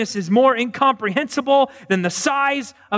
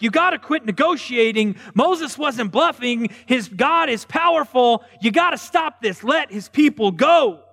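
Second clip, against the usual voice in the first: urgent advisors; 5 semitones higher than usual. Retold or imitated. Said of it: "they're like".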